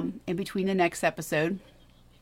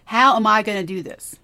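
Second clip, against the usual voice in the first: worried self-talk; 7 dB louder than usual. Shown as a demonstration. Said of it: "So here's some examples".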